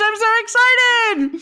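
high, slow gushing delight; excited. Acted. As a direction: squeal it with glee. Cohost gushing over history fact.

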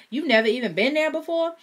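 high, loud disbelieving shout; shocked shout. Acted. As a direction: yell it in disbelief. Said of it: "She shouted".

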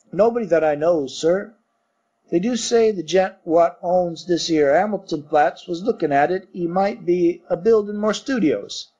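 lightly voiced Cockney servant; Cockney bellboy. Thomas the bellboy answering his master, light Cockney. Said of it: "Thomas's Cockney dialect".

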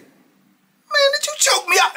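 high, loud disbelieving yell; shouting in shock at his little brother. Retold or imitated. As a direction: yell it out, stunned he choked you. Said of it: "I said".

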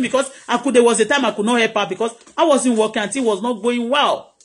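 ordinary talk, nothing marked

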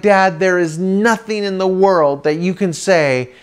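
acted-out dramatic refusal; adamant refusal. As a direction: refuse with drawn-out firmness. Kid adamantly refusing his dad.

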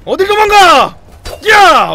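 high, loud fighting yells; battle roar. Real, not acted. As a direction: roar with every strike. Fighting the last rats.

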